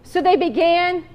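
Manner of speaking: measured, earnest Bible reading; a preacher's steady reading voice; scripture reading. Acted. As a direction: read the parable to the congregation. Reads scripture aloud in sermon.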